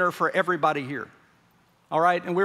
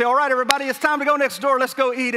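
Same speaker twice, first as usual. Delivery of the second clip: calling everyone over; 4 semitones higher, 4 dB louder, faster than usual. Retold or imitated. Calling congregation to eat.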